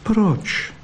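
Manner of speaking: a sudden high little "Proč?"; high surprised question. Acted. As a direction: ask it high and startled. Vixen asks, voice jumps high.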